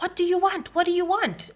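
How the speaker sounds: high, loud pleading question; retold desperate demand. Victim to intruder after the struggle, high loud demand. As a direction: re-enact crying out at an intruder. Acting her plea to intruder.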